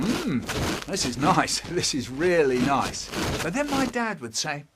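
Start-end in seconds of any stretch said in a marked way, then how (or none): 0.0-3.1 hushed and content; soft savoring. Acted. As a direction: savor it quietly. Quiet savoring.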